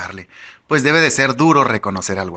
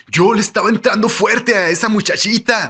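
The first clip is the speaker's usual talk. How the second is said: higher-pitched character voice, bragging; 9 semitones higher than usual. A narrator's reading. Tyler boasts to the narrator about a girl, bragging. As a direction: brag in a raised voice.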